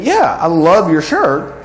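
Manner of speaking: slow, sincere "Yeah, I love your shirt"; mean every word of the praise; sincere compliment. Shown as a demonstration. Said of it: "that's congruent".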